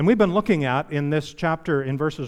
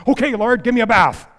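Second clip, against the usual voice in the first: much higher and louder, gushing eagerness; eager Peter; 7 semitones higher, 8 dB louder than usual. Retold or imitated. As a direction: overeager disciple jumping right in. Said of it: "Remember Peter's response?".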